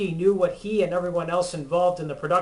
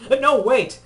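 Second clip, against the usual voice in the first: startled; 8 semitones higher, 6 dB louder than usual. Acted. Protests against the demon voice.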